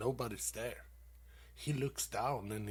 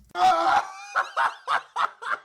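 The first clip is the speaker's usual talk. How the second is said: big high shouted laugh; loud laugh; 13 dB louder than usual. Real, not acted. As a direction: burst out laughing at his own joke. Laughs at own punchline.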